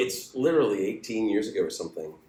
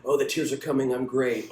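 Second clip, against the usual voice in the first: smug actor; 5 semitones higher, 3 dB louder than usual. Retold or imitated.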